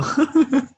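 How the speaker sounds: a quick bright burst of laughter; short amused laugh. Real, not acted. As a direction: laugh briefly at the tech trouble. Mic still too quiet.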